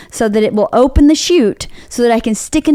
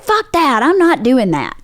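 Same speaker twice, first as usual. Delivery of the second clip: mock angry retort; 4 semitones higher than usual. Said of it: "And I was like".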